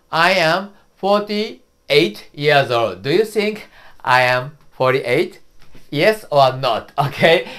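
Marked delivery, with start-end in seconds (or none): 0.1-3.0 slow model answer. Shown as a demonstration. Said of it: "and answer is".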